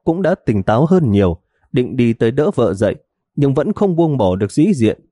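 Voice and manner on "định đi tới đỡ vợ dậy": ordinary delivery, nothing marked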